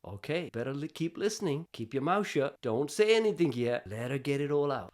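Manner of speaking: soft, low voice in his head; quietly steer yourself to keep listening; inner voice. Retold or imitated. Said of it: "this little voice in my head is saying this".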